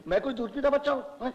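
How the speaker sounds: high, loud amused objection; laughing protest. Acted. Old patient objecting to baby talk, laughing and high.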